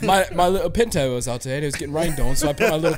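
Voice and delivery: mock British accent. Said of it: "that accent went way south".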